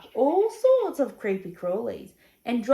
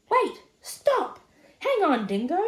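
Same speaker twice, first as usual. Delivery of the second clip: high, loud plea to halt; urgent calling out; 7 semitones higher, 5 dB louder than usual. Acted. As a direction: shout to stop him, urgently. Animals urgently stop Dingo.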